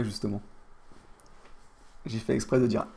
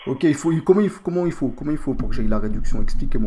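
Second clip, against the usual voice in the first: loud, insistent mock rebeu French accent; put-on rebeu accent; 8 dB louder than usual. Customer asking how to get the discount, put-on rebeu accent. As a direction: press for answers in a fake rebeu accent. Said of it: "mon accent".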